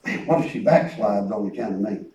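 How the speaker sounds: hushed worried inner voice; worried thought. Retold or imitated. Preacher recalling his fear he caused her to backslide, hushed. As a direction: mutter the worry to yourself.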